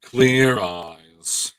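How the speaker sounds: lightly imitated deadpan pitchman; drawn-out, understated impression of an ad spokesman; Ben Stein. Friend doing an eye-drop ad, light Ben Stein impression. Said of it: "you sound like Ben Stein".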